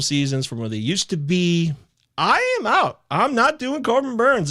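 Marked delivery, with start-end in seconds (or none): 2.2-4.5 1 emphatic declaration. Real, not acted. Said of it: "declares dropping player".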